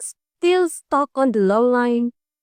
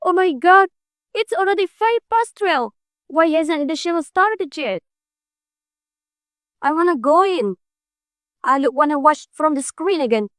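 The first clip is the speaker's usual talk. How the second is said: higher-pitched, exasperated fretting; impatient exclamation; 5 semitones higher than usual. Acted. Fan kept waiting for the show to start, impatient.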